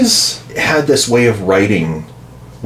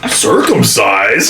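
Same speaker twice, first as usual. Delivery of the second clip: incredulous; 2 semitones higher, much slower than usual. Pretend. Incredulous Israelite quote.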